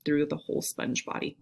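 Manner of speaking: speaking with the hiccups. Real, not acted. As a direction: talk through a hiccup. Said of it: "got the hiccups".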